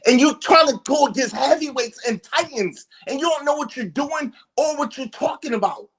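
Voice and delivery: real heated argument; furious berating. Real, not acted. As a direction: belittle him in real anger, ending in a shout. Berating the man on the panel.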